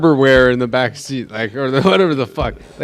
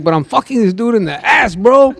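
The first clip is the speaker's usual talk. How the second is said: higher, mock-distressed wail; retold crying; 8 semitones higher than usual. Storyteller imitates a crying man confessing, mock-tearful. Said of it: "and he was crying".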